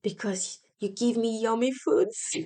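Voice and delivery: a hint of a small child's voice, plain level; relaxed mild child quote; child's answer. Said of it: "And she says".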